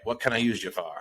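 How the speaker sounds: put-on terrible Boston movie accent. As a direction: attempt a Departed-style Boston line, badly. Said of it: "That is your worst accent so far".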